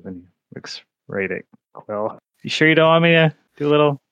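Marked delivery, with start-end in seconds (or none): 2.4-4.0 friar voice. Acted. Friar offers healing.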